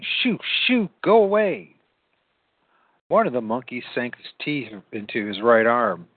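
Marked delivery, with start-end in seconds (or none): 0.0-1.7 high-pitched shooing; shouting. A narrator's reading. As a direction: chase them off with raised pitch. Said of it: "and shouting".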